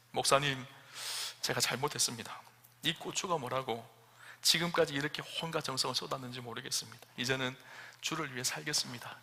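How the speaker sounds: soft, repentant plea; humble confession. Acted. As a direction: say it quietly like someone on her knees. Deaconess kneels, repents.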